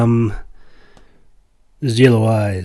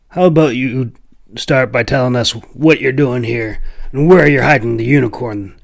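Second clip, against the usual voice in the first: a touch louder, pressing demand; demanding hunter; 5 dB louder than usual. Acted. Stocky hunter presses the stranger about the unicorn, demanding. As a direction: lean on him for answers. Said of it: "man on the left demanded".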